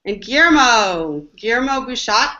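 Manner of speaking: put-on host hams up a French accent introducing Guillermo; playful French accent. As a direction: roll out "Guillermo" with a hammed-up French flair. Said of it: "I will use my best French accent to say that".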